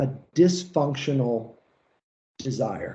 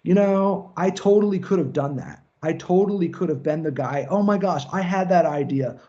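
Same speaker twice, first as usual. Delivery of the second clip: mock frustrated dreamer; 3 semitones higher than usual. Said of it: "spend their lives in a state of".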